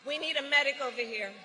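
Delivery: urgent quick call over the crowd; calling out for help. Real, not acted. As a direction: call out fast for a medic.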